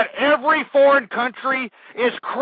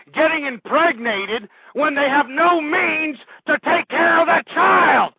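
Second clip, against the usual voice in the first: ranting quote. Acted. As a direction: spit out the quote as a furious decree. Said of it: "I want you to quote me on this".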